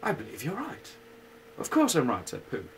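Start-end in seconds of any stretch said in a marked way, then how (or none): 0.0-0.9 a higher, sighing donkey voice; lightly voiced glum donkey; gloomy Eeyore. Donkey answering Pooh after a long sigh, glum. 1.6-2.3 louder, higher bear voice; a lightly voiced bold little bear; Pooh voice. Pooh to Eeyore, sure of himself.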